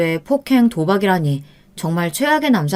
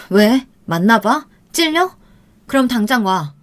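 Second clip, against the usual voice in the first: needling, accusing challenge; taunting; 3 semitones higher than usual. Acted. Girlfriend taunting her boyfriend on the phone, provoking. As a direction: provoke him, mocking.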